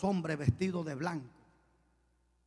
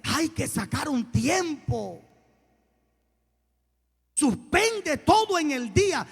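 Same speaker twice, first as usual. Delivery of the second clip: urgent preaching; 5 semitones higher, 5 dB louder than usual. Real, not acted. Preacher urging the church to make time, urgent preaching. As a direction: plead with the church, building to a loud high peak. Exhorts the congregation.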